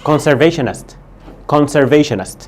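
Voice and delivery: Conservationist said clearly at normal pace; repeat for class. Shown as a demonstration. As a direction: model Conservationist for the class to echo. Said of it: "بص، اسمها".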